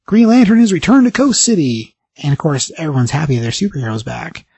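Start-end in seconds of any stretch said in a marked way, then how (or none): 0.1-1.9 lightly voiced TV announcer, pitched up; TV newsreader. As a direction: announce it like breaking TV news, higher. Reading out a TV news report.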